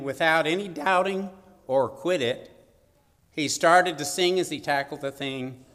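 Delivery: measured, rhythmic verse reading; poem recitation. Acted. Preacher reciting a poem to the congregation, poem recitation.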